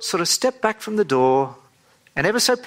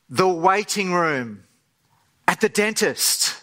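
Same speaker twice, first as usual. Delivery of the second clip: a lightly played breathless, eager friend; slower than usual. Friend breathlessly tells you where they're going, understated thrill. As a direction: gush it out slow, as if hardly able to hold it in. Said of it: "in this breathless kind of way".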